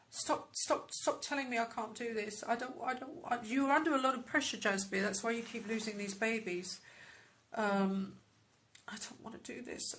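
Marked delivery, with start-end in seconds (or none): 0.1-3.1 high, breathless pleading; panicked protest, high; distressed plea. Acted. Medium channels a distressed woman. 8.9-9.9 soft unvoiced whisper of I don't wanna do this; frightened whisper; whispered refusal. Channelled voice, repeated line.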